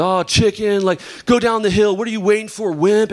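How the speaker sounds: lightly voiced taunting boys; mocking friends. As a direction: tease him like a schoolyard buddy. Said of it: "make fun of you".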